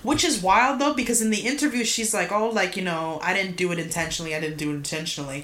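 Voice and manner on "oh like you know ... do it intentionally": quick, offhand mock excuse; playing it off. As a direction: rattle off a casual denial, trailing softer. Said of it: "tried to play it off like an accident".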